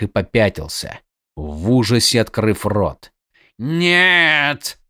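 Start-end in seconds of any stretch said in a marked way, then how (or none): 3.6-4.8 frightened cry. A narrator's reading. Assassin terrified at the sight.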